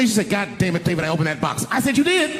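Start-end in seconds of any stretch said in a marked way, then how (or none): 0.3-1.6 mock a wife's annoyed confession; imitated mad wife. Wife confessing she opened the box, mock mad. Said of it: "she was mad at me". 2.0-2.3 very high, startled question; mock surprise. Husband learning she opened the box, mock surprise.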